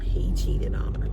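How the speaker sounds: hushed breathy whisper of the betrayal. Real, not acted. Telling the listeners about his cheating, whispered. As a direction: whisper it like a secret too painful to say.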